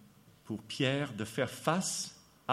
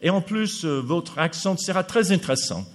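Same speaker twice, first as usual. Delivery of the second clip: imitation de l'organisateur; 3 semitones higher, 4 dB louder than usual. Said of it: "J'ai dit".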